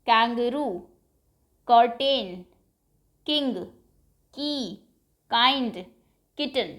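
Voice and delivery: each word spoken on its own with a clear K start; a teacher modelling K words one at a time; word list demo. Shown as a demonstration. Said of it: "All these words start".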